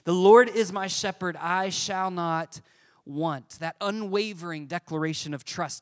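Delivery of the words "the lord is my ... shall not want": scripture reading. Real, not acted. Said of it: "Here's what it says".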